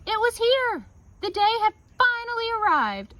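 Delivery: high, loud thrilled announcement; squealing with delight; excited. Acted. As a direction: burst out with joy as the big day comes. Big harvest day excitement.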